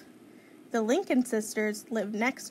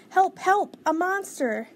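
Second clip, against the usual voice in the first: high, loud panicked calling; shouted cry for help; 8 semitones higher, 5 dB louder than usual. A narrator's reading. Baby calls sister about a monster, panicked shout. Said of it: "shouted Baby".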